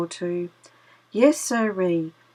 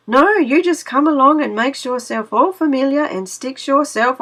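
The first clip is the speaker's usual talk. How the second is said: louder, smug sly fox; gloating fox; 2 semitones higher, 4 dB louder than usual. Acted. Brer Fox gloating at trapped Brer Rabbit, louder and smug. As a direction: gloat over your trapped prey.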